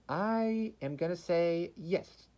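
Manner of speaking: slow, high, drawn-out announcement; dramatic verdict. Acted.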